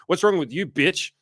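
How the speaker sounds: very high-pitched imitation of a rejected man; mock outrage. Imitating a turned-down man insulting the woman, outraged. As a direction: turn suddenly nasty, exaggerated and high.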